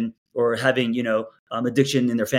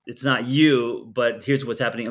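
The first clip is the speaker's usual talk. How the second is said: gentle; 2 semitones lower than usual. Retold or imitated. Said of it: "Or are you saying".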